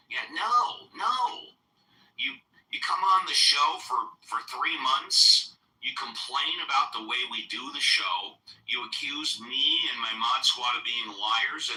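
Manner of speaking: high, heated scolding; angry. Real, not acted. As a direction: dress him down firmly. Host scolding heckler for complaining.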